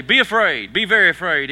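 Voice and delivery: loud, hammed-up spooky warning; mock-ominous Jesus line, played for laughs; spooky horror-movie warning. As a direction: boom it like a horror trailer. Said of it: "Notice Jesus didn't say".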